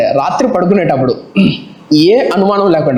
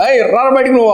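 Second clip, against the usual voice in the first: put-on drunk challenge; 5 semitones higher than usual. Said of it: "అరుస్తారు గట్టి గట్టిగా".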